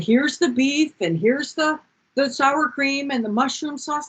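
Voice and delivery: a hint of mom unpacking the bag; matter-of-fact mother. A son imitating his mother, mild matter-of-fact voice.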